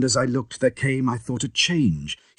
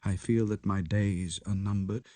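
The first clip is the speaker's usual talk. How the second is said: soft, low and shaken confession; hushed, haunted narration; 5 semitones lower, 9 dB quieter than usual. A narrator's reading. Lanyon writing his last letter to Utterson, hushed. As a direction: read it like a dying man's last words.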